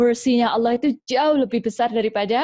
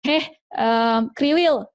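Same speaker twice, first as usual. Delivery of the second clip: name-calling mother; 4 semitones higher, slower than usual. Acted.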